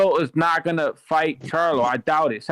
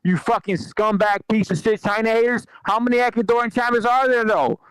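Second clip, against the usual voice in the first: excited rant; 3 semitones higher than usual. Real, not acted. Excited rant praising Ecuador.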